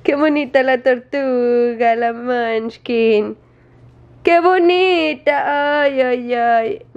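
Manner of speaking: slow, drawn-out singsong pet praise; exaggerated cooing. Real, not acted. Owner teases jealous dog by praising Munchkin, cooing. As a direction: stretch every vowel, gushing over a pet.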